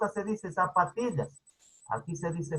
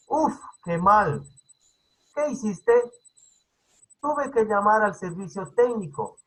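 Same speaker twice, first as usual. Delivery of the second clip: lively dialogue reading; 2 semitones higher than usual. Retold or imitated. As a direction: read the chat brightly, like two friends. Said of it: "estaba leyendo, dice". (leyendo el diálogo entre amigos con viveza)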